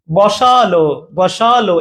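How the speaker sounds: বসালো with an extra full vowel after the s; wrong pronunciation demo. Shown as a demonstration. Teacher showing learners the unspoken vowel, wrong pronunciation demo. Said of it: "এই অটা কিন্তু উচ্চারণ হয় না".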